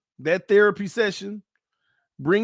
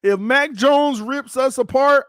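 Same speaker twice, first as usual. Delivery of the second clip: higher, slower, pretend-tearful whine; mock whine; 6 semitones higher, 4 dB louder than usual. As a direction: moan it like a fan about to cry. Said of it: "I'm boo-hoo crying".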